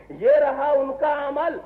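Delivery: یہ رہا ان کا عمل said slowly, each word weighed; slow the repeat down to drive it home; sermon repeat, slowed for weight. Shown as a demonstration. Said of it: "repeated for emphasis".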